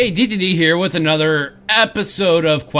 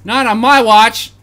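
heroic cry; 7 semitones higher, 9 dB louder than usual. Acted. Heroic defiance.

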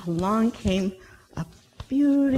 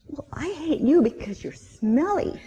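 grumpy hippo; 6 semitones higher than usual. Acted. Hippo voiced in story.

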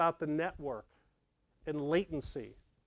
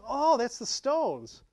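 excited recognition; 7 semitones higher, 6 dB louder, much slower than usual. Retold or imitated. Recognizing the song, acted self.

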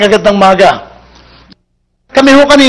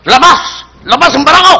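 higher, calling out a challenge; tough guy challenge; 5 semitones higher than usual. Acted. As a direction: dare anyone to come out. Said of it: "Mamatapang to".

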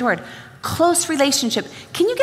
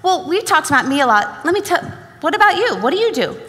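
mock polite, rising on what about you; imitating the talker handing the turn back; polite turnaround; 3 semitones higher than usual. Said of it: "it goes like this".

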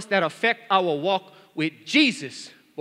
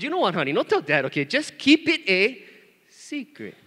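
retold coaxing dad; 3 semitones higher, 3 dB louder than usual. Dad telling daughter not to tell, mock coaxing. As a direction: stretch the warning, then hush the last word.

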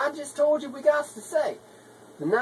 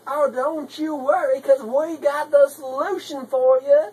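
toned-down reassurance; 2 semitones higher, 5 dB louder than usual. Acted. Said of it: "we tone it down a bit and be like".

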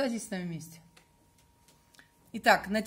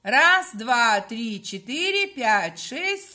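loud chanted count together; many voices in unison; 5 dB louder, much slower than usual. Shown as a demonstration. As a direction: count aloud with the group. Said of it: "Руками вместе".

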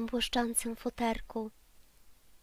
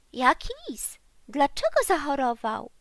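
loud, alarmed questions called out; calling out; 3 semitones higher, 8 dB louder than usual. A narrator's reading. Friends shout back at the rabbit, loud and alarmed. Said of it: "zawołali przyjaciele".

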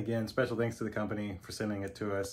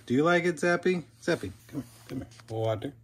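high, louder sweet voice to the dog; pet talk; 5 semitones higher, 5 dB louder than usual. Real, not acted. Asking the dog.

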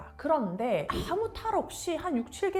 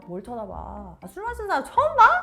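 picking a fight; 7 dB louder, faster than usual. Retold or imitated. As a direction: imitate a drunk wife picking a fight, rising sharply at the end. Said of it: "틱틱 시비를 거는 듯한 이런 말투". (취해서 틱틱 시비 거는 말투 흉내)

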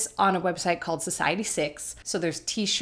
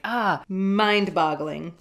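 mock American accent; much slower than usual. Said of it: "What are American accents like?".

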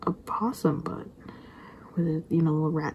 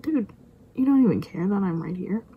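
mock indignation; 5 dB louder than usual. Mock scolding of the oblivious possum.

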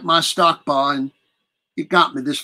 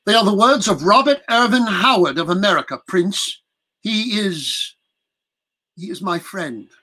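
proud announcement; 5 semitones higher than usual. Acted. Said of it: "announcing with pride".

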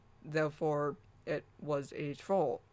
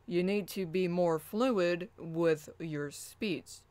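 slow and measured; slower than usual. Shown as a demonstration. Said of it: "To me, that sounded better".

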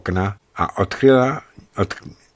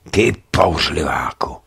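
low whisper; whispered endearment; 6 semitones lower than usual. A narrator's reading. Woman to her lover in an embrace, whispering.

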